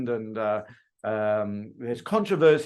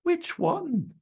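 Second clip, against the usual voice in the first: customer asking. Retold or imitated. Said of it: "your customer's gonna say".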